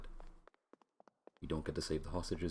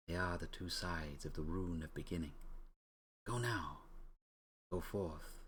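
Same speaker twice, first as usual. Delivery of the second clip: lightly voiced ancient spirit, unhurried; solemn spirit voice; 3 dB quieter than usual. Rune spirit sending Ryo and Joey off, lightly solemn. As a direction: grant them their fates like an oracle.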